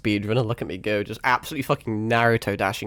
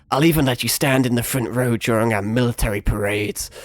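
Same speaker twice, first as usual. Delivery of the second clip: grisly villain; 2 semitones lower than usual. Shown as a demonstration. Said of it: "Quite a deep one".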